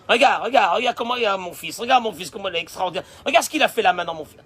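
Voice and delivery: mother brags about her son to her husband, excited and loud; proud excited mother. Acted. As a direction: show off your son to your husband.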